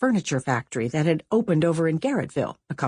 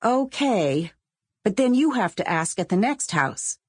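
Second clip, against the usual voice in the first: put-on lightly higher girl's voice; Willa bargaining; 5 semitones higher than usual. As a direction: strike a deal with your friend. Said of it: "Willa said".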